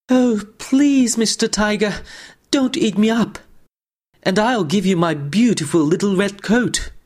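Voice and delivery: put-on high pleading little boy voice; frightened prey animal. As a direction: beg the tiger, small and scared. Sambo begs the tiger.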